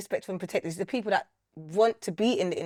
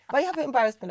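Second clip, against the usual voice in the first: higher, hammed-up motherly complaint; lightly put-on accent of a wounded mum; imitating mum; 4 semitones higher, faster than usual. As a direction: play mum's mock reproach. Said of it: "Always put this accent".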